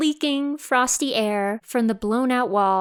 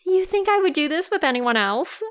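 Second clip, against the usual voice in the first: indignant retort; 4 semitones higher than usual. Acted. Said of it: "And Binghe's like".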